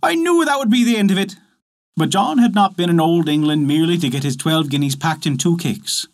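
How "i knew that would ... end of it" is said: high, tearful lament of a wife; mild sobbing despair; a wife turned away at the door, lightly sobbing. A narrator's reading. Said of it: "so sobbing as if her heart would break".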